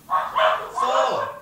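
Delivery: high, loud yell back; shouted reply. Retold or imitated. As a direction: holler back from a distance. Shouted joke exchange.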